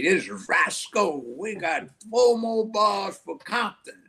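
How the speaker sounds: high, excited radio DJ call; radio DJ impression. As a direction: belt it out like a sixties soul DJ. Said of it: "He used to say".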